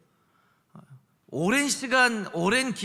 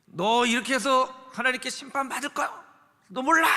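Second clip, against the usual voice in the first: mock threatening Satan; 4 semitones higher than usual. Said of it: "째려보면서 무섭게".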